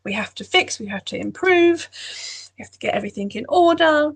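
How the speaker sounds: lightly voiced nagging perfectionist; inner critic. Inner critic demanding everything be fixed, mildly insistent. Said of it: "the inner critic can be really kind of".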